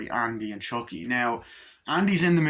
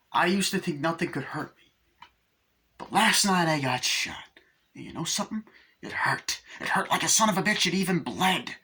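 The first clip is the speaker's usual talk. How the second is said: Chucky voice; 6 semitones higher than usual. Retold or imitated. Chucky confessing to John.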